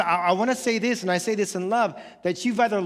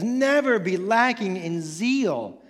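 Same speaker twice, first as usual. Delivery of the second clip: slow scripture reading; slower than usual. A narrator's reading. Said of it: "Paul says".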